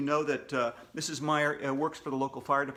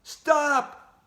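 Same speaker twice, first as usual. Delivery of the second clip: loud high command; shouted; 10 semitones higher, 7 dB louder than usual. Acted. Bear telling the screaming kids to stop, loud shout. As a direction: shout it to halt the chaos. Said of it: "Shouted the bear".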